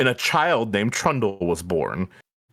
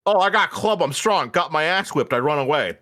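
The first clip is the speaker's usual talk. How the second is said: dumb troll voice; 2 semitones higher than usual. Retold or imitated. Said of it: "retold backstory".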